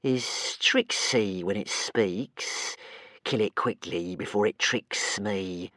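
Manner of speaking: very slow complaining monster; slow sulky creature voice; whiny creature. Acted. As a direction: whine it to itself. Creature talks to itself.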